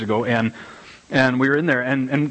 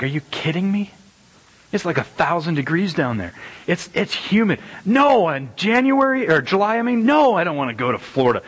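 hammed-up outrage, higher and climbing; mock indignant complaint; 5 semitones higher than usual. Preacher mocking a Florida anniversary trip, hammed-up disbelief. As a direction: protest the idea like it's absurd. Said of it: "I'm like".

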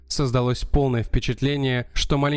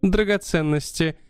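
countess voice; 2 semitones higher than usual. Acted. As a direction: play an excitable countess, pitched up. Countess tells her story.

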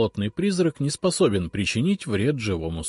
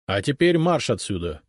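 stern; 2 semitones higher than usual. Acted. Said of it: "строго сказал я".

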